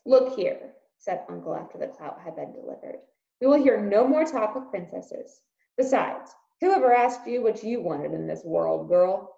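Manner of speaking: scolding uncle. Acted.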